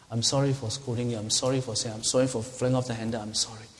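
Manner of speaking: subdued, lightly contrite apology; genuine apology. Shown as a demonstration. Parent apologizing to a child for scolding, genuine. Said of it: "A genuine "I'm sorry".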